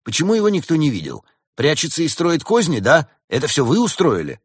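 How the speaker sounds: high, agitated accusing questions; nervous. Acted. Badger accuses the bear of scheming, nervous and worked up. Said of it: "нервно спросил барсук медведицу".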